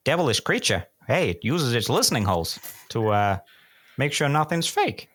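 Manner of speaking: put-on clue in a Minnesota accent drifting to New York. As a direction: try Minnesota but slide toward New York. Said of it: "I was still going almost New York".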